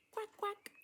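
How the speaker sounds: high, squeaky quacking; silly duck voice for a child. Pretend. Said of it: "This bird says".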